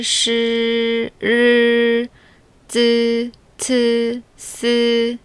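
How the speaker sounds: every syllable from 뽀 to 스 said crisp and separate; full initials drill. Shown as a demonstration. Teacher drilling all Chinese initials for learners. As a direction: run the chart clearly, one by one. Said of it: "처음부터 끝까지 다시 연습해".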